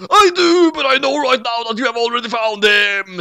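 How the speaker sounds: a tiny death god swaggering; squeaky Shinigami. Acted. Youngblood voice again.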